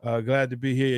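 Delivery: talking with a sinus infection; congested, blocked-nose voice; stuffy nose. Real, not acted. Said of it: "I have a little bit of a sinus infection".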